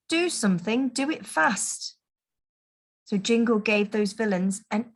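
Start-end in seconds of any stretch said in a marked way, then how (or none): 0.1-2.0 desperate. Acted. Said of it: "cried Santa desperately".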